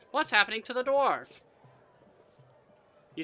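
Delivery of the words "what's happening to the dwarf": high, loud shout from the crowd. A narrator's reading. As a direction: shout it out in alarm. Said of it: "Someone shouts".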